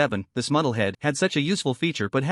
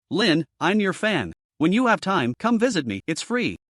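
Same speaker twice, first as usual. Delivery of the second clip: seductive; 3 semitones higher than usual. Acted. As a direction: coax him in a slightly seductive voice. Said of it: "A slightly seductive voice".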